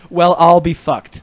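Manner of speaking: slow, drawn-out Irish "Well, I'll be fucked"; slow mock Irish line; terrible Irish accent. Shown as a demonstration. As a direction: play the phrase in a bad Irish accent. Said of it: "terrible, uh, accents".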